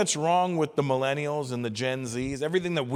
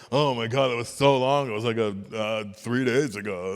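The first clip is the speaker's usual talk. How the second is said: a hint of a dramatic young person, lower, slowing at the end; 5 semitones lower than usual. Mocking a young person's sense of time, lightly voiced. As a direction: overplay how long three days feels.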